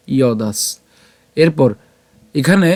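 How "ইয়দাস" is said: "ইয়দাস" as iyo-daas, ending on s; closing dental s. Shown as a demonstration. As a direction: carry "ইয়দাস" through to the final s. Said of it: "দন্তাসকে নিয়ে আসলাম". ("ইয়দাস" শেষে দন্ত্য স সহ)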